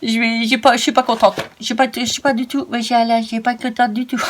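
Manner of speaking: a lightly put-on pouty little voice; a hint of a sad little cartoon voice; sulky little voice. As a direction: play at being a sulking child, only half in character. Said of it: "arrête, Christelle, de faire des voix".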